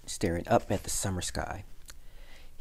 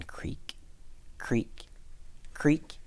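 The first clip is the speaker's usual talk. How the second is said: creaky, spaced-out door noises; slow creaking, one at a time; imitated door creak; 7 semitones higher, 4 dB quieter, much slower than usual. A narrator's reading. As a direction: make the word creak like an old hinge.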